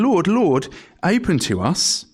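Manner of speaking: high, desperate plea to be let in; a mock desperate plea, high and urgent; pleading cry. Foolish virgins begging at the shut door, high pleading cry. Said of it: "they pleaded to come in".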